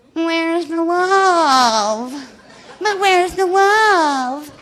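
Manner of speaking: very slow nasal whine, "love" stretched out. Quoting a question heard since the books came out, in a mock whiny nasal tone. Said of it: "I've heard this with a whiny nasal tone".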